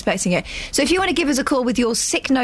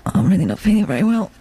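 poo voice; 2 semitones lower, faster than usual. Pretend. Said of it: "That's your poo voice".

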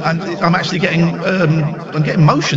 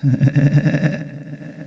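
laugh with echo; 5 semitones lower, 3 dB quieter than usual. Real, not acted. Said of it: "this flipping echo".

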